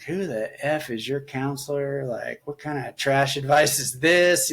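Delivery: going off at her, half-reliving it; retold angry outburst. To his wife, retelling going off, mock outrage. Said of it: "I'm just going off".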